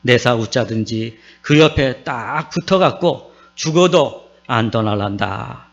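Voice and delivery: Psalm 23 recited in Gyeongsang dialect, slowed a little; Gyeongsang dialect recital. Pretend. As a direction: recite it like a Gyeongsang grandpa, lightly. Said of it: "경상도 사람들이 이 시를 이렇게 읊습니다". (가볍게 흉내 낸 경상도 사투리 낭송)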